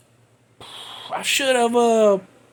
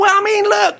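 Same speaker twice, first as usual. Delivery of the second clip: emphatic; 7 semitones higher than usual. Real, not acted. Defending himself.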